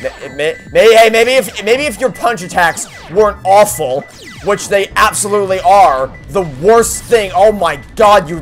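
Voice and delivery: ordinary talk, nothing marked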